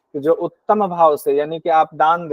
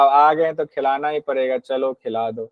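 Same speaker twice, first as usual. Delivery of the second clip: grudging; 3 semitones lower than usual. Retold or imitated. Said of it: "मध्यम भाव से अतिथि की सेवा".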